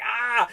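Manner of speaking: high-pitched retold yell, "Ah!"; mock scream. Reviewer imitates his buddy losing near victory, mock scream. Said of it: "He was yelling. He was screaming".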